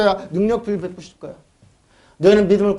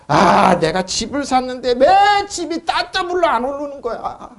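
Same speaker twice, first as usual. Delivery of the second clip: laughing mock complaint, slow; mocking whine; 4 semitones higher, slower than usual. Preacher mimics a believer griping about house prices, with a laugh. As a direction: whine like a greedy homeowner, chuckling.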